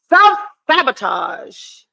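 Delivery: slow, drawn-out diagnosis; slow knowing voice. Retold or imitated. Quoting a viewer's verdict in a slow knowing voice. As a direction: say it like a therapist's verdict. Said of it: "somebody said".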